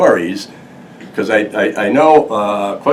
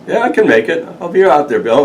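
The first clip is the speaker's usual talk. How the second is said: Van's reply voiced; 9 semitones higher, 5 dB louder, faster than usual. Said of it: "He goes".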